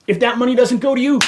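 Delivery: real anger over paid fees going nowhere; angry demand about the monthly fee; pissed off. Real, not acted. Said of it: "This is him when he's pissed off".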